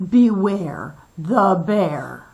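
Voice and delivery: big, loud, growling bear-like voice. Reading a story aloud, a voice warns the penguins: great growly voice. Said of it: "a great growly voice called out".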